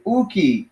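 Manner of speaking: "Uki" lifted in pitch; emphatic no. Shown as a demonstration. Teacher shows how to make the denial emphatic, emphatic. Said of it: "if you want to make it emphatic".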